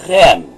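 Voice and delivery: "rem" as one isolated syllable; "rem" set apart, teacher demonstrating; syllable read aloud. Shown as a demonstration. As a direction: read "rem" alone as a single closed syllable. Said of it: "Se vamos ler, então, esta sílaba".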